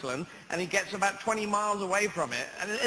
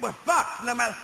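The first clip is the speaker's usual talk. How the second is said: mock exasperation; 5 semitones higher than usual. British viewers' dismay at the film.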